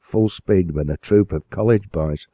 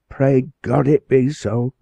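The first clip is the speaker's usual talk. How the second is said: higher, louder heartfelt plea; mother crying out a quick prayer; fervent prayer; 7 semitones higher, 4 dB louder than usual. Acted. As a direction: pray aloud from a full heart. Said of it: "ejaculated Bess from a full heart".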